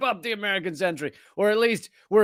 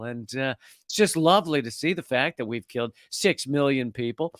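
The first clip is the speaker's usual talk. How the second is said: nice calm voice; 5 semitones lower than usual. Shown as a demonstration. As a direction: talk about horrors as if it were lovely. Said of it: "I'm gonna say that in a nice, calm voice".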